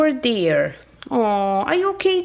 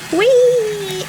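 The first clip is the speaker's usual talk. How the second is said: gleeful whee; 6 semitones higher than usual. Acted. Toy riding the train, squealing whee with glee. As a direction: squeal with joy on the ride.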